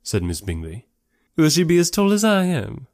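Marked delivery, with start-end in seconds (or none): 1.4-2.9 high, keen ladylike question; inquiring society lady. Acted. Miss Bingley asking Darcy about his sister, eager. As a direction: ask eagerly in a raised character voice.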